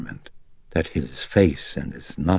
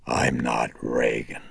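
rumbling denial; 4 semitones lower than usual. Acted. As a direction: rumble it from deep in the chest. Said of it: "she rumbled".

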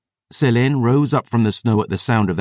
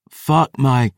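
higher, strained wheeze; wheezed last words; 4 semitones higher than usual. A narrator's reading. Dying narrator defying the approaching terrors, wheezing. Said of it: "as I wheezed my final words".

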